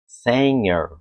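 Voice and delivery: singer like senhor; native way. Shown as a demonstration. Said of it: "o nativo vai falar assim".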